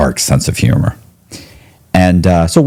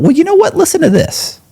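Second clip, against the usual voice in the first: much higher, keen and bright-eyed; retold excited lead-in; eager tip-off. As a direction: lean in with big news. Eager to tell attorney the tip.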